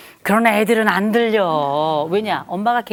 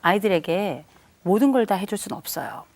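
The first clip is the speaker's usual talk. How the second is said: ordinary talk, nothing marked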